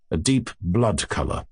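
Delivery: plain reading voice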